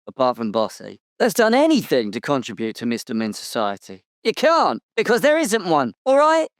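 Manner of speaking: high-pitched indignant outburst; indignant denial. Acted. Interviewee rebuts what a rival said about him, indignant. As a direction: protest hotly, pitch leaping up. Character angrily denies a rival's claims.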